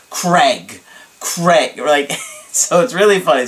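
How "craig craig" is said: mock-dramatic, drawn-out name; dramatic name call. Imitating a client on Skype, dramatic name call. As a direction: imitate an excitable friend calling out. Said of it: "he's always really dramatic when he says my name".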